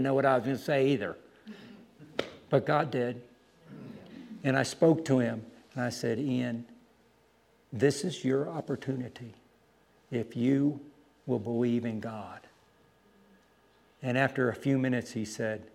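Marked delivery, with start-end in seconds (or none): 6.2-12.4 earnest appeal. Retold or imitated. Retold earnest appeal on knees.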